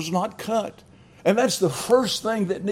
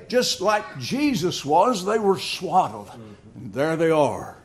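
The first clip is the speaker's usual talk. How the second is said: ordinary delivery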